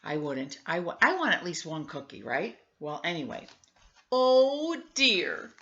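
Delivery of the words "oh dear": loud, high, dismayed exclamation. Acted. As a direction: cry out in sudden worry. Ma dismayed at empty plates.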